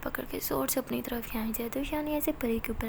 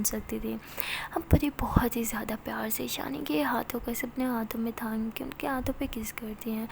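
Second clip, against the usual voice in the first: whispered narration. A narrator's reading. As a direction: draw the listener close, hushed. (धीमी फुसफुसाती कथा-वाचन)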